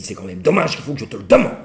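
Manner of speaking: lightly voiced reproachful wife; a touch of sulky reproach; wife's reproach. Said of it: "Et elle dit".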